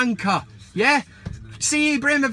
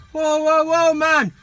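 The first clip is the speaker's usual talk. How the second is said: higher, mildly raised complaining call; mock protest; 5 semitones higher, 4 dB louder, slower than usual. Viewers objecting to the cut show, mock protest. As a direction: imitate indignant viewers calling a halt.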